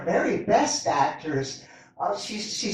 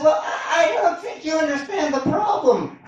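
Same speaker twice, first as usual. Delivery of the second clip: higher, louder plea, laughing through it; yelling back; 6 semitones higher, 4 dB louder than usual. Retold or imitated. Husband yelling back to his wife, higher and laughing. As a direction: shout back helplessly. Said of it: "They yell at each other from across".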